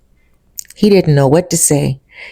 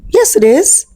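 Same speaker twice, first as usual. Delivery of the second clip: insistent; 12 semitones higher than usual. Retold or imitated. Quarrel over missing locket.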